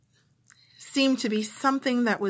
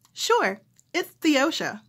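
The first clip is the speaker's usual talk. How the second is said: bright, higher patient repeat of the name; phone operator voice; 5 semitones higher, slower than usual. Retold or imitated. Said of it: "phone operator".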